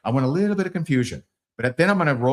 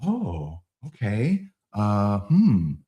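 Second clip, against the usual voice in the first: act surprised. Shown as a demonstration. Salesman feigning surprise at prospect's dislike, mild mock surprise. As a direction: feign confusion gently, trailing. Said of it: "I'm gonna act surprised".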